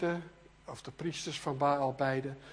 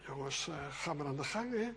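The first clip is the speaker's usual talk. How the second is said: much softer, low and relaxed; calm, unbothered; 3 semitones lower, 9 dB quieter than usual. Retold or imitated. Elia rustig to the prophets of Baal, calm and unbothered. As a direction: say it quietly, as if in no hurry. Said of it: "Hij rustig zegt".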